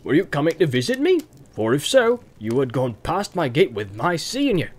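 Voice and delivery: rustic farmer quizzing a guest; countryman's lilting interrogation; questioning farmer. Acted. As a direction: question them pointedly but genially.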